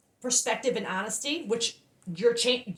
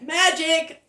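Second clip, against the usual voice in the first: awed; 6 semitones higher, 6 dB louder than usual. Real, not acted. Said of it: "I'm emotional right now".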